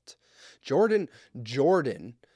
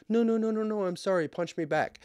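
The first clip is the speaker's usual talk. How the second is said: much higher, pleading mock apology; imitating panicky kid; 10 semitones higher than usual. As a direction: play the guilty big brother begging.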